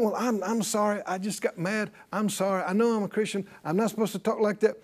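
mock-contrite, quiet apology; sheepish apology. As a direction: play someone meekly excusing a temper slip. Voices a sheepish Christian's excuse.

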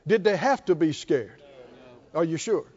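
ordinary delivery

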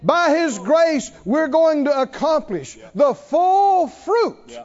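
high, loud, driving sermon voice; rising revival cry; fiery preaching. Acted. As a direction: preach it full force to the crowd. Preaching at full force.

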